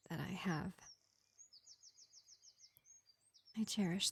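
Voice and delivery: lightly voiced vampire healer, projected above the chatty voice; gentle vampire medic. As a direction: play a measured vampire reassuring a wounded elf, with long pauses. Plays vampire medic to an elf.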